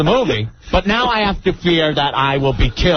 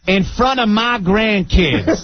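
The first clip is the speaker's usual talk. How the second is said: scolding grandmother; 4 semitones higher, slower than usual. Retold or imitated. Acts out offended grandmother's scolding.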